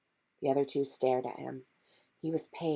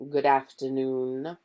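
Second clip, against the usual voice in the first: slow, silky greeting; smoothly; slower than usual. Acted. Snape greeting the three suspiciously, silky and slow. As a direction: greet them slow and oily. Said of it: "he said smoothly".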